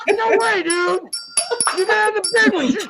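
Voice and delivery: high, talking through a mouthful of marshmallows; cheeks stuffed full. Real, not acted.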